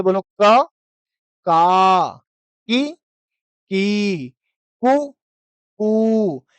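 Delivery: क, का, की, की, कु, कू with short and long vowels clearly different; say along with me. Shown as a demonstration. Teacher leads class in call-and-repeat, syllables said distinctly. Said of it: "अब इसे आप मेरे साथ बोलिए".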